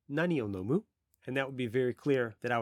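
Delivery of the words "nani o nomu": native Japanese "Nani o nomu?" with a rising question tune; Japanese phrase. Shown as a demonstration. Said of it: "I could just say".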